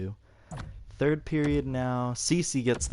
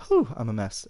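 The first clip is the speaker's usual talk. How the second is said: catching breath after a sneeze; recovering right after sneezing; just sneezed; 5 dB louder than usual. Real, not acted. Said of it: "I have to sneeze".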